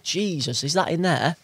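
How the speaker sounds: can't believe there's a fish in there; shocked passerby. Retold or imitated. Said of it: "And they're like".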